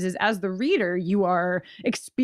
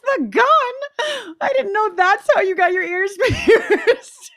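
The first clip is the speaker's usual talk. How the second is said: high, loud, laughing mock horror; squealing half-laughing disbelief; laughing through the quote; 8 dB louder, slower than usual. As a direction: retell the shock while cracking up. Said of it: "I was like".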